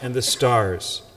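measured, solemn proclamation of scripture; Gospel reading. Acted. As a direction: read the Gospel aloud to the congregation, unhurried.

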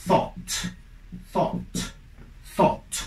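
"thought" with soft th and open "aw". Shown as a demonstration. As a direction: model "thought" for the class. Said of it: "su pasado es".

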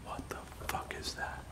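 frightened whisper, half-breath; startled whisper. Real, not acted. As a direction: whisper it in shock. Hears sound in dark house.

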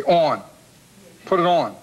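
"on" in a Philadelphia accent. Shown as a demonstration. Host showing his hometown speech, Philadelphia accent. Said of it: "It's a Philadelphia accent. We say things like".

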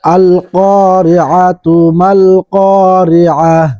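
slow, drawn-out Quranic recitation. Shown as a demonstration. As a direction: recite the verse slowly with tajwid. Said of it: "বানান করে সূরা কারিআহ". (ধীর তিলাওয়াত)

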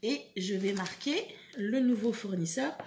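usual speaking voice

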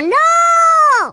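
high, loud cry of denial; dismayed shout. Acted. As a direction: yell it in outrage. Sudden dismay.

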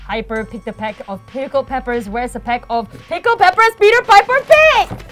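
slow careful recital. Real, not acted. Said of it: "That was really slow".

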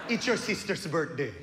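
put-on exciting news in a deadpan Filipino accent; depressed Filipino mom. Mom announcing family news to her child, mock depressed. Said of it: "my mom's face always looks depressed".

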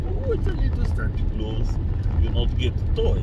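obnoxious Santa with a thick fake Russian accent; Alec Baldwin's Santa. Man showing off his film Santa impression, obnoxious fake Russian. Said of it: "he plays an obnoxious Santa Claus".

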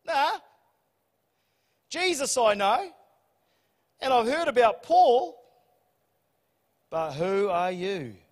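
a lightly voiced demon taunting the exorcists; evil spirit voice. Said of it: "the spirit answers them back and goes".

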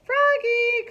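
loud, high call across the house; mother calling her son back. Acted. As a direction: call him back from the door. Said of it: "called his mother".

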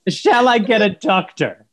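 slow mocking echo; mocking imitation. Son slowly echoes mum's line to tease her. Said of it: "The eighteen twenties?".

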